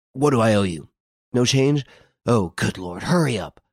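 lightly voiced agitated young man, a touch choked; hurried and half-strangled with alarm, understated; choking voice. A narrator's reading. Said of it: "in a choking voice".

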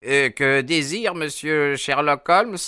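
high-pitched, eager inquiry; old man's high character voice; obliging old man. A narrator's reading. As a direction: ask helpfully what the guest wants. Old man now welcoming the visitor.

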